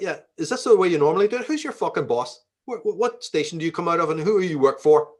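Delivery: put-on light Belfast accent, a bit quick and challenging. Confronting the mail carrier in a light Belfast accent. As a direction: give it a touch of Belfast street toughness. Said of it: "you know, Belfast".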